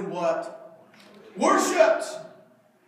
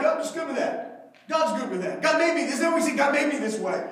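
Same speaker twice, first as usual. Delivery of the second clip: mocking excuse; 4 semitones higher, 4 dB louder than usual. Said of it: "we're like".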